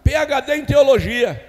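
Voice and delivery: high, shouted pulpit proclamation; fiery, emphatic sermon delivery; full-force preaching. Acted. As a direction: hammer it out loud to the congregation.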